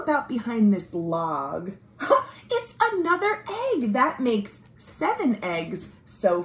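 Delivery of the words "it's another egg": laughing find. Acted. Finding egg under log.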